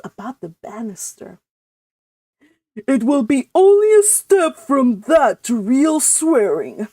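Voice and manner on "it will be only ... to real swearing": louder, stern uncle; a lightly voiced severe uncle. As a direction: lay it down sternly. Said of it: "said Uncle James sternly".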